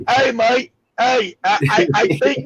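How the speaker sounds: attempted British accent, drifting Australian; jokey British impersonation with an Australian slant; mock British accent. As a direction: have a rough go at sounding British. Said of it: "I sound more Australian than I do British".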